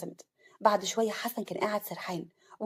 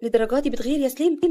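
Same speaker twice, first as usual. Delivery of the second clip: louder, affectionate teasing question; loving; 3 semitones higher, 5 dB louder than usual. Acted. Bride asking her groom about his jealousy, lovingly. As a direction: ask fondly, lifting at the end. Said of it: "عفاف بحب".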